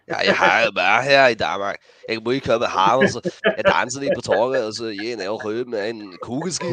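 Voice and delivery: mumbled potato-mouth Danish impression. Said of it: "the potato voice again".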